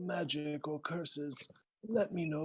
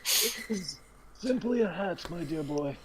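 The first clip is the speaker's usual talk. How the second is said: character voice; 4 dB louder than usual. Acted.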